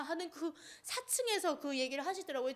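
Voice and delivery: real tears breaking into the words; crying. Real, not acted. Telling the audience about her father, crying. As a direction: speak through a sob, voice catching.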